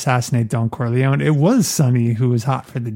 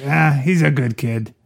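lightly waved-off line in the speaker's usual pitch; mildly dismissive. Acted. Cop letting it go this time, mildly dismissive. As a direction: brush it off mildly, imitating the cop. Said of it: "like a dismissive kind of like".

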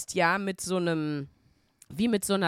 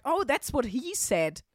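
joking quip; 3 semitones higher than usual. Retold or imitated. Retold joke to humourless caller.

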